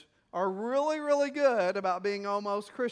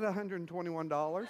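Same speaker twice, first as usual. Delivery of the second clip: put-on quoting the boy while breaking into a laugh; laughing punchline; 3 semitones lower, 3 dB quieter than usual. Pastor retells the boy's request to the congregation, laughing. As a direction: chuckle through the boy's price.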